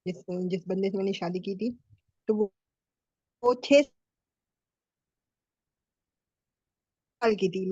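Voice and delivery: choppy call audio; bad connection. Real, not acted. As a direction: voice cutting in and out. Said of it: "आपकी आवाज़ cut रही है".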